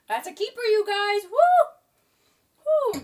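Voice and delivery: high, loud thrilled verdict; excited. Real, not acted. Vlogger raving to viewers about the food, excitedly. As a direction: sell it to viewers with delight.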